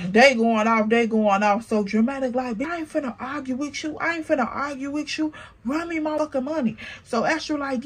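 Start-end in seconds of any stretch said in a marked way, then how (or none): 2.6-6.8 fast soft quarrel. Retold or imitated. Acted quarrel quote.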